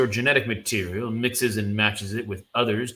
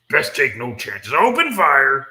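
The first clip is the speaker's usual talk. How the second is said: commanding shout; 7 dB louder than usual. Acted. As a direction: bark the order loud. Commander orders attack.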